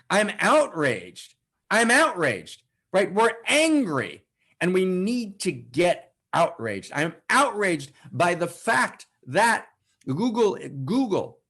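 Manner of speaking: slow, emphatic indignation; outraged declaration. Real, not acted. Preacher rousing listeners against Google, outraged. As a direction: declare it with drawn-out stresses.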